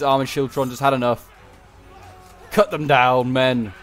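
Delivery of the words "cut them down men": battle command. Acted. Commander urging troops in battle.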